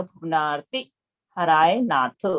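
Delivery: भुवनार्ति with a short ती, said slowly and clearly; pronunciation demo. Shown as a demonstration. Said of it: "तो इस तरह से बोला जाएगा". (भुवनार्ति का स्पष्ट उच्चारण, छोटी ती के साथ)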